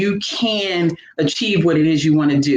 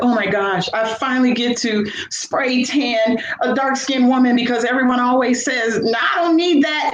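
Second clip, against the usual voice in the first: happy tanning lady; 6 semitones higher than usual. Retold or imitated. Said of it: "the lady was so happy".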